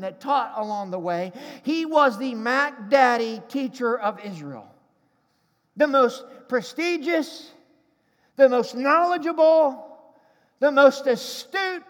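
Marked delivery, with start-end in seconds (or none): 5.8-11.8 building emphasis. Acted. Preacher exalting Nicodemus, building emphatic list.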